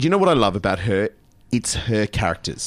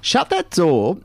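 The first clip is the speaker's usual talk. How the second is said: lightly camp quoted catchphrase; a hint of camp music-hall comic; Larry Grayson catchphrase; 7 semitones higher, 4 dB louder, slower than usual. Radio host quoting a camp comedian, lightly camp. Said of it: "a very camp English comedian called Larry Grayson".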